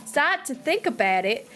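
wavering, badly faked Australian; Aussie accent. Streamer explaining how it slips, faltering mock Aussie. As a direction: keep a light put-on Aussie going till it fades. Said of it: "sometimes I can kinda get it going".

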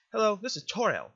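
put-on gentle guardian sending a child off; lightly voiced, formal motherly figure; motherly game guardian. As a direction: speak as a caring, proper guardian.

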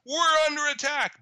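high-pitched cry of alarm, acted out; mock scream. Turkey calling to NATO for help, mock scream. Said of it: "Turkey screams to nato".

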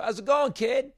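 high, friendly call in passing; cheery greeting. Retold or imitated. Acted cheery greeting to passer-by.

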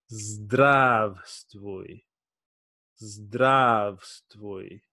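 Zdravstvuj drawn out slowly, syllable by syllable; careful slow Russian zdravstvuj; slow Russian greeting demo. Shown as a demonstration. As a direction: teach Zdravstvuj slowly to a beginner. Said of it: "This is how to say hello semi-formal".

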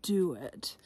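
secretive whispered ending; hushed knowing aside. Acted. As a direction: drop to a whisper to hint the twist. Conspiratorial aside about the title.

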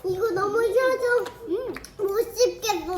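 chewing while talking; talking through a mouthful of candy; mouth full. Real, not acted. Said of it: "소리 못 내겠어". (입에 가득 넣고 말하기)

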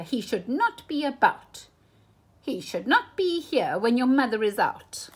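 a fretful fish, starting high and loud, ending in a whisper; fussy fish pleading with the kids; worried fish. Acted. Fish begs children to send the cat away, fretful.

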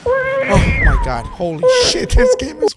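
high panicked cry with a laugh; shriek, half laughing in panic; terrified shriek. Real, not acted. Gamer jump-scared in a horror game, high panicked shriek.

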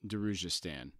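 a quiet, tired sigh of recognition. A narrator's reading. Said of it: "Fiddler sighed".

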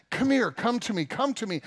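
beckoning close. Acted. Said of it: "he pulls his brothers close".

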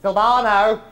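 loud call across the room. Real, not acted. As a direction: summon the waiter loudly. Calling waiter across room.

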